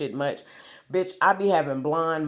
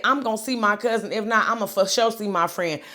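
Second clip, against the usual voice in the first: heated; 6 semitones higher than usual. Retold or imitated. Fed up at the gate, vowing to find her cousin heatedly. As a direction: snap it out fed up. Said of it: "I said".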